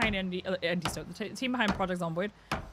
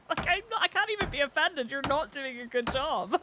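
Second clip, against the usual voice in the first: amused disbelief; 6 semitones higher than usual. Real, not acted. Laughing at bad mockery of her.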